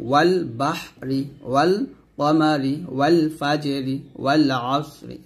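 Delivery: ওয়াল বাহরি, ওয়াল কমারি slowly with a clear l; lam sounded. Shown as a demonstration. Teacher giving moon-letter examples, lam clearly sounded in ওয়াল. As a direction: sound the l in every ওয়াল before the next word. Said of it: "তবে লাম পড়তে হবে".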